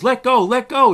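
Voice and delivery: a loud, high, strangled cry of pain; retold yell. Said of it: "the guy's yelling 'cause it was hurting him".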